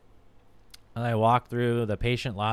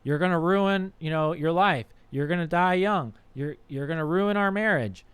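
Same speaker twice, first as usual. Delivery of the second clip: mildly pleading, higher-pitched nagging; błagalne upominanie; 4 semitones higher than usual. Acted. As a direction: plead with a partner to stop, pitched up. Acted plea to an addicted partner.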